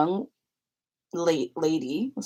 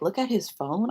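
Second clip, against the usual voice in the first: puzzled; 3 semitones higher than usual. Retold or imitated. Retold puzzled reaction to the remark.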